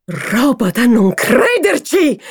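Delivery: loud, slow furious outburst; hoarse angry shout. Acted. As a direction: spit it out in rage. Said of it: "gridò con voce arrochita dalla collera". (grido rauco di collera)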